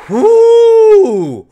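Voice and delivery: high, loud whoop; excited whoop. Real, not acted. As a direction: let out a thrilled cheer. Hyped reaction to own reading.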